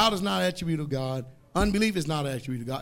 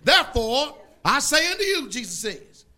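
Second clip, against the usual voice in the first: loud, higher, slowed King James reading; scripture preaching; 6 semitones higher, 5 dB louder than usual. Acted. Preacher reading Mark to the congregation at full force. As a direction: proclaim the verse like thunder.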